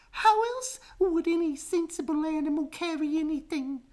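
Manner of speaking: very high, scornful; monkey mother scoffing. A narrator's reading. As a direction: dismiss the question with disdain.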